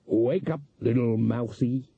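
feline, teasing coaxing; cat-man taunt. A narrator's reading. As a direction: toy with a mouse as a cat would. Cat-man toys with fainted mouse.

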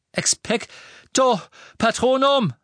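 slow stretched incantation; drawn-out failing spell. Acted. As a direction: strain to cast, unsure. Nichts passierte.

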